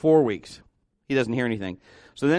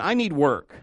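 normal talking voice

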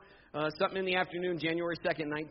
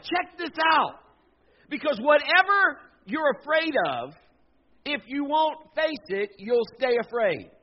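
much louder, higher sermon shout; fiery preaching; 9 semitones higher, 8 dB louder than usual. Acted. Preacher drives the point home, shouting to the congregation. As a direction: preach it hard to the church.

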